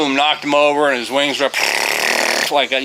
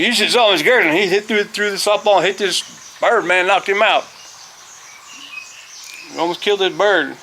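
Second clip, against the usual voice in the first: high-pitched imitation of a kid telling on teacher; excited schoolkid reporting to the principal; tattling kid; 7 semitones higher than usual. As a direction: tell tales in a raised kid voice. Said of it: "like one of them kids going".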